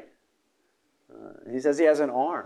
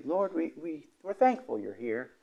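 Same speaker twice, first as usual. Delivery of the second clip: gentle request; 6 dB quieter than usual. Pretend. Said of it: "wake him up, say".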